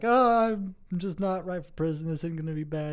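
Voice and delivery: lightly acted crying prisoner, starting high; mock tearful. New convict explains his crying to a veteran, mildly mock tearful. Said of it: "just crying, sobbing uncontrollably".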